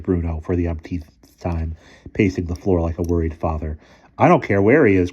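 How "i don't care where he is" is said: cried. A narrator's reading. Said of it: "cried Boots".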